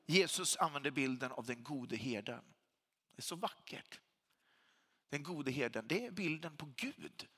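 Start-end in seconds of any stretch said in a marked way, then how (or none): 3.1-4.0 awed whisper. Real, not acted. Preacher marvels at the image.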